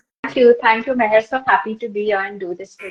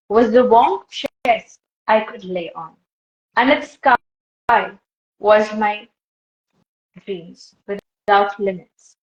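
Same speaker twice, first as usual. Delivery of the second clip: monologue reading. Acted. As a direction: read it out phrase by phrase, letting each one land. Reads a monologue aloud.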